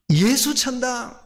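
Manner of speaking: slow proclaiming shout of "예수천당"; mock street-preacher cry. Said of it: "소리 질렀던 전도자가".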